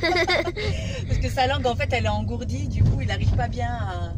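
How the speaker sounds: talking through laughter; amused, laughing explanation. Real, not acted.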